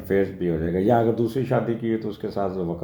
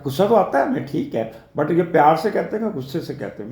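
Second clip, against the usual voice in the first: half-joking daughter's voice, trailing off; daughter's retort; 6 semitones higher, faster than usual. Retold or imitated. Daughter voiced questioning father.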